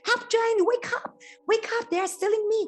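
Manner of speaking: the harp yells to wake the giant; shouting for help. Acted. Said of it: "the harp starts to shout".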